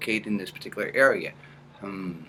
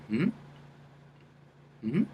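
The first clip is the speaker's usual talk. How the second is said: one-sound hum; 4 semitones higher, 5 dB quieter than usual. Shown as a demonstration. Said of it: "make it all one sound".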